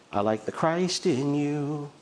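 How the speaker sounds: lightly voiced ad catchphrase; slogan imitation. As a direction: draw it out like a commercial tagline. Echoes an old commercial slogan.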